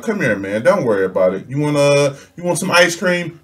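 a touch of soothing dad voice. Retold or imitated. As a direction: comfort him gently. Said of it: "I come pick Aaron up".

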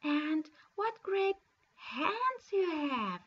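a lightly voiced little girl amazed; Little Red Cap wondering. Girl's next question.

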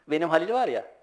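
usual speaking voice

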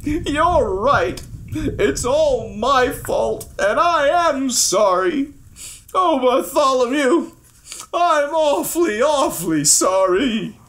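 crying king. Acted. Old king begs his page's forgiveness, tearful acted crying. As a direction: sob through a remorseful plea. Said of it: "The old king was crying".

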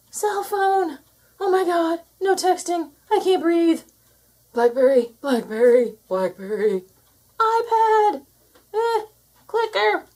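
high, loud frantic cries; panicked yelling. Acted. Humans frantically searching for their devices, high panicked yells. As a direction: lose it over missing gadgets.

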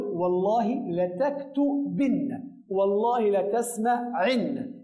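والله لتكتبن and والله لتسمعن spoken slowly; slow model phrases. Shown as a demonstration. Teacher slowly dictating example sentences to the class. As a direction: read the two examples slowly. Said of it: "ونقول".

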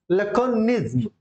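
लैकोनिज्म stretched out slowly; pronunciation demo. Shown as a demonstration. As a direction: model लैकोनिज्म slowly for repeating. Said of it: "इनको pronounce करना है".

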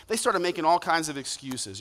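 ordinary delivery

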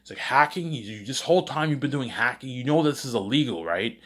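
shock and scolding at a hacking son; mock parent yelling. Parents scold their son for secret hacking, mock yelling. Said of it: "they start yelling at me".

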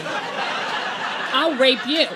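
loud, high-pitched comic menace; hammed-up defiant outburst at an intruder; mock threat. Acted threat to imagined intruder.

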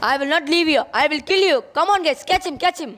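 high, loud game war cries; frenzied battle yell. Acted. Game-addicted patient yells war cries while attacking Akshay. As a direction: scream it like charging into battle.

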